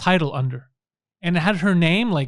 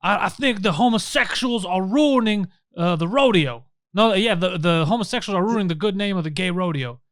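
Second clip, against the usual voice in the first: Southern guy; 2 semitones higher than usual. Retold or imitated. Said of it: "a Southern guy".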